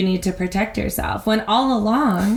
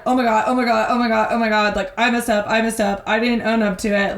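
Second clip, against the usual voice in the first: lightly acted panic, words tumbling in repeats; a touch of anxious self-blame, run together; mock freaking out; faster than usual. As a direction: imitate a kid spiraling over a mistake. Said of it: "freaking out, 'cause he's like".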